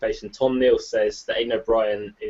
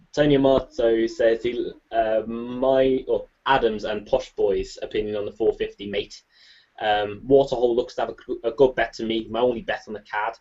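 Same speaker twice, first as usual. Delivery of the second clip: put-on Scouse accent. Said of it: "That's the worst Scouse accent I've ever heard".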